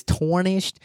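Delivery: slow "tarnished" with torn in front, TORN-ished; repeated slip. Retold or imitated. Podcaster repeating own slip, "tarnished" as TORN-ished. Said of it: "that shit came out as tarnished".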